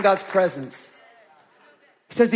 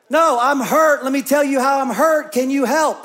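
raised, pleading admission of hurt; honest hurting person; 5 semitones higher, 4 dB louder than usual. Acted. Churchgoer admitting hurt at the hospital, raised and pleading. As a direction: cry out that you are hurt and need help.

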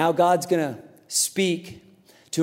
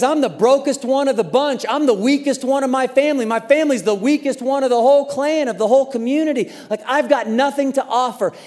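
self-pitying Gideon; 5 semitones higher than usual. Retold or imitated. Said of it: "He says".

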